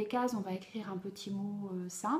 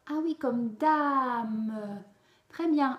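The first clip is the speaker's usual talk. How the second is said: cheerful praise; 2 semitones higher, 6 dB louder, much slower than usual. Acted. Teacher praises the child.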